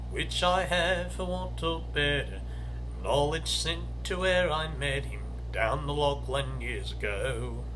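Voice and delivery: slow, measured bush-ballad reading with a lilting rhythm; poem recital. Acted. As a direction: read it like a fireside ballad for listeners. Recites Banjo Patterson poem.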